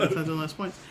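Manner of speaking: quiet words through a laugh. Real, not acted. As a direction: say it while cracking up.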